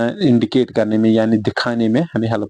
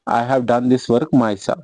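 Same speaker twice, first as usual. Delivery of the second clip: each word spaced out slowly; teacher dictating slowly; slow dictation; much slower than usual. Shown as a demonstration. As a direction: read it out slowly for the class to copy. Teacher dictates example sentence.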